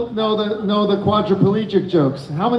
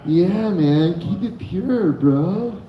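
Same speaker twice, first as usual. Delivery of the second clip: lightly voiced mellow hippie; hippie attitude; 3 semitones lower, slower than usual. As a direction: say it easy like a stoned hippie. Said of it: "in, like, a hippie attitude".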